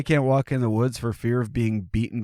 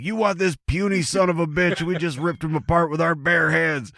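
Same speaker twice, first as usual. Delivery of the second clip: high, mocking redneck Bigfoot; mock-boastful redneck taunt; redneck accent; 9 semitones higher than usual. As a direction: jeer like a hammed-up redneck bully. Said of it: "accent, but for some reason he does".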